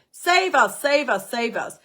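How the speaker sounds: high, loud pleading cries that fade; begging crowd. Pretend. The watching crowd begs the fifth line to save them, pleading cries. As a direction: beg to be saved, calling up at them.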